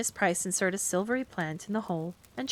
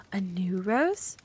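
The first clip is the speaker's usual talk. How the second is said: interested; much slower than usual. Acted. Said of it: "asked Carrie interestedly".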